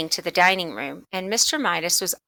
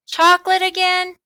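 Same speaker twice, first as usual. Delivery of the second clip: much higher, louder astonished question; surprised mother; 11 semitones higher, 6 dB louder than usual. Acted. Mother hearing the chocolate claim again, surprised. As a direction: catch her breath in surprise.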